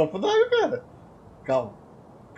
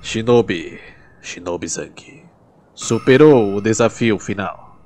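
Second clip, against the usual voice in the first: lower, slow dramatic announcer voice; trailer narrator; 7 semitones lower, 3 dB louder, slower than usual. Acted. Gamer closing the video, mock epic trailer narration. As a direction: narrate like an epic anime preview.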